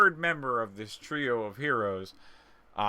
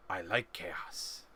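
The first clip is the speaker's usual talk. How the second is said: slow, lower goblin purr about chaos; 5 semitones lower, 7 dB quieter, much slower than usual. Acted. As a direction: savor the word chaos like a gleeful goblin. Goblin voiced by GM.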